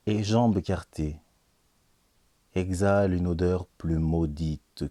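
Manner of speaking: slow, solemn recital of dark verse; weighty pauses between slowly spoken lines; poetry reading. Acted. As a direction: declaim it gravely, stretching each phrase. Reads the final poem.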